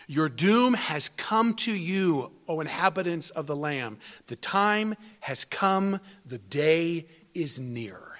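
slow, weighty reading of prophecy; measured pulpit reading of scripture; solemn scripture reading. Acted. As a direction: read the verses like a pronouncement of doom. Quotes Ezekiel's prophecy.

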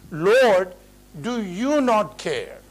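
imitating an exasperated demand; annoyed reproach. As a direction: quote her indignant challenge, stretching the words. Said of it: "she's annoyed with the Lord himself".

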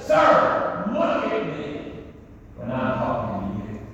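a king losing his temper; livid Herod. Retold or imitated. Herod raging at silent Jesus, furious. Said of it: "I see Herod livid".

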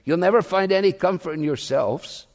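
lightly voiced Essex preacher accent; a hint of broad Essex. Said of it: "in his broad Essex accent".

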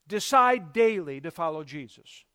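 "daily" given firm, deliberate emphasis; stress on daily. Real, not acted. Preacher giving his second tip, "daily" firmly emphasized. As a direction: lean on the word "daily". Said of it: "I emphasize the word daily".

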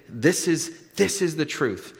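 "this is" repeated with firm weight; bold-faced emphasis. Acted. Preacher paraphrasing what Jesus is saying, emphatic. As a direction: press deliberately on "this is the truth". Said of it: "is bold-faced type print".

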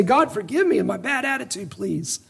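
softened plea, fading on the last word; modelled repentant prayer. Acted. Preacher models asking God for forgiveness, soft repentant plea. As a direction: drop the volume as if praying privately.

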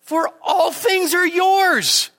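high, slow, ringing declaration; emphatic proclamation. Acted. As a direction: land the word yours slowly from above. Quoting Paul climactically.

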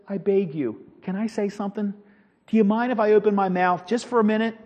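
very soft, meek request; humble pleading. Retold or imitated. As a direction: play a beaten man quietly asking permission. Beaten Paul humbly asks to speak.

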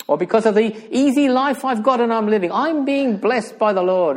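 fast, high, mock self-congratulation; mock smug. Preacher voicing the comfortable believer with an easy life, mock smug. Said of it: "we're all smug".

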